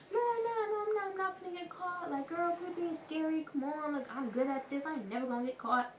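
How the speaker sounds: high, breezy imitation of her friend; mocking the cocky friend. Imitating a friend brushing off getting caught, high and cocky.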